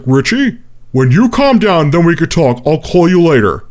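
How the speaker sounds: Ralph. Retold or imitated. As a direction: placate as the odd stalker, lightly imitated. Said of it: "sounded exactly like Gary Oldman's character".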